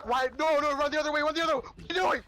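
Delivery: high, fast panicked shouting; panicked yelling. Real, not acted. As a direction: yell at them to run away. Teammate chased by killer.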